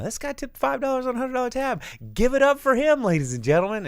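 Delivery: loud, high mock announcer holler; big dad voice, building to a rousing call for applause; re-enacted bar shout. Host publicly shaming a bad tipper, hollering it out. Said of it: "I just shouted in the bar".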